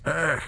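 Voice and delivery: sharp pained grunt; robber grunt. A narrator's reading. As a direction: grunt as he's grabbed.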